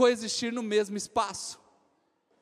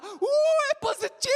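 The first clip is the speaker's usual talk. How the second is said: high squeal of delight; a girl shrieking over a positive test; squealing with joy; 14 semitones higher, 5 dB louder than usual. Retold or imitated. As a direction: shriek happily at the good news.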